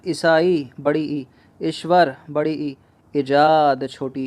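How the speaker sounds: ईसाई, ईश्वर, ईजाद dictated slowly with their vowel marks; slow dictation. Shown as a demonstration. Teacher dictating spellings slowly to the class. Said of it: "इस तरह से लिखा जाता है".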